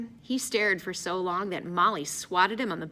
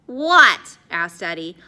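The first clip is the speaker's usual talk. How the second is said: incredulous; 3 semitones higher, 10 dB louder, slower than usual. A narrator's reading. Hungry Eddie asking Addison what beats food, incredulous. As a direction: burst out in disbelief.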